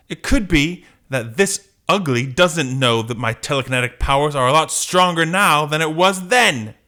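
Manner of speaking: defiant heroine. Acted. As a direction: build to a triumphant challenge. Jean boasts while fighting.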